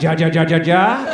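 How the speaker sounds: hammed-up meme laugh; mock Spanish laugh. Latinos laughing at their memes online, a hammed-up "ja ja". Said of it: "They're all like".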